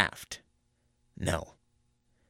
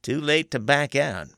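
1: warning conjurer; 7 semitones higher, 5 dB louder than usual. A narrator's reading. Teague warns Paradine.

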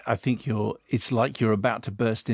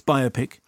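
biopic with the first part, BIO, emphasized; stress on BIO. Shown as a demonstration. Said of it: "with the emphasis on".

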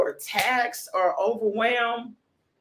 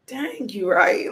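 slow, loud drawn-out "Dang"; loud exclaim; 4 dB louder, slower than usual. Retold or imitated. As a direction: shout it slowly, like it suddenly hit you. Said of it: "And I was like".

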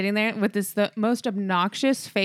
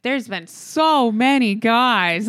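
drawn-out mock quote; much slower than usual. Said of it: "she was like".

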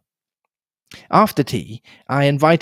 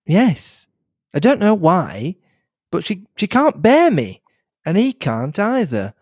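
put-on lightly higher, anxious young woman; young Cynthia, worried; 6 semitones higher than usual. Cynthia asks Hastings what she should do, mildly anxious. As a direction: ask for advice, a little lost.

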